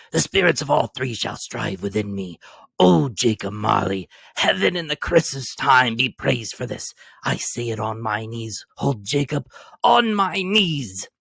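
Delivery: overjoyed, near tears; fluttered, glowing. A narrator's reading. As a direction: pour out grateful joy, voice catching. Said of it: "so fluttered and so glowing with his good intentions that his broken voice".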